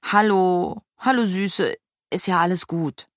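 gentle reassurance for a horse; tender, unhurried comfort; soothing. A narrator's reading.

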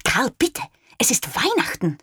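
wife pleading with husband, lightly voiced; a mild reproach to her husband; understated plea from wife; gentle admonishing. A narrator's reading. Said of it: "ermahnte Frau Moser ihren Mann".

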